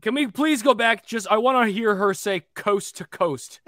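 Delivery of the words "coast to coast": drawn-out newscaster coast to coast; exaggerated news voice. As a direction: stretch it like a TV anchor. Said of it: "in that exaggerated way again".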